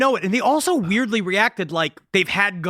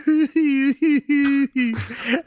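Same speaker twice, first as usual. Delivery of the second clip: high, drawn-out fake sob; mock weepy whimper; 4 semitones higher than usual. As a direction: whimper in put-on tears. Acting Danny's tearful tape message.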